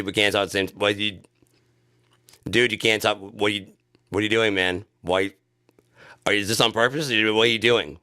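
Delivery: loud, exasperated shouting over each other; frustrated yelling. Acted. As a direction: yell like a fed-up guy on a bad call. Acting out a Zoom argument.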